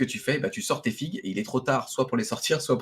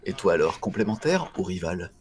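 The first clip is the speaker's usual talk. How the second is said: deepest voice; 3 semitones lower than usual. Acted. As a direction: drop to the lowest register you can. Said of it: "j'essaie de prendre la voix la plus grave que je puisse faire".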